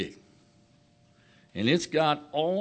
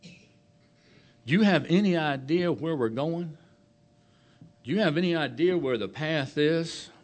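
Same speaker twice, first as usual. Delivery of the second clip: concerned; 5 semitones higher than usual. Retold or imitated. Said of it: "a little concerned".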